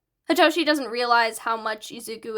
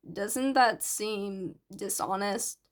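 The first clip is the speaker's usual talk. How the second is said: slow, soft and unsure question; hesitant; 3 semitones lower, 5 dB quieter, slower than usual. Acted. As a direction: ask it slowly, afraid to offend. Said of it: "Hitoshi asks hesitantly".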